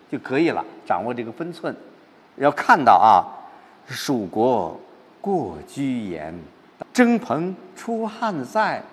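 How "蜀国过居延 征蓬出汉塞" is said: slow, measured poem recitation, still pent-up; 郁闷地朗诵. Shown as a demonstration. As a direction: recite slowly, letting each phrase hang. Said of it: "这还是在郁闷当中". (缓慢郁闷的诗歌朗诵)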